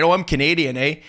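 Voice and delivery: mock Canadian eh. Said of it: "if they wanna make fun of Canadians".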